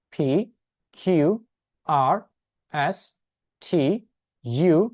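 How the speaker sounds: each letter said slowly and clearly as a model; teacher modelling the alphabet letter by letter; slow alphabet recital. Shown as a demonstration. Teacher recites the alphabet for the class, slow and clear. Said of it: "আমি একবার আমার মতো করে বলছি".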